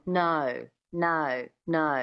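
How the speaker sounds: NO with a schwa before the O, Australian twang; "no" as a separate, twangy Australian diphthong; Australian O sound. Shown as a demonstration. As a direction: give each NO an Aussie glide. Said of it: "gives it that Australian twang".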